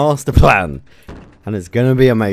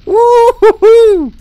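loud, high, drawn-out whoop; whooping cheer; 10 dB louder, much slower than usual. Real, not acted. Player celebrates the explosion, loud high whooping.

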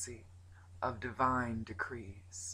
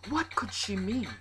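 high, loud baffled question; astonished; 6 semitones higher, 5 dB louder than usual. A narrator's reading. People puzzled by the wise one, astonished. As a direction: ask it as one of a startled crowd. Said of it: "the people gasped".

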